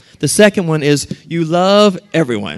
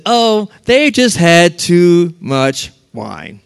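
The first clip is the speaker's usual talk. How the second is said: drawn-out, lightly scornful dismissal; mocking; 3 dB louder, much slower than usual. Pessimists making fun of the disciples, slow mock. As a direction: make fun of them, stretching the words slowly. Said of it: "made fun of them".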